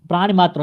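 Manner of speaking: प्राणी मात्र with a short "i" ending प्राणी; correct short vowel. Shown as a demonstration. Teacher confirms the right word, correcting. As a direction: keep the end of प्राणी brief. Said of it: "प्राण सही होता".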